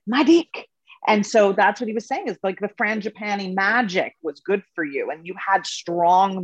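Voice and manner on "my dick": imitating Ketut. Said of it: "And he would say".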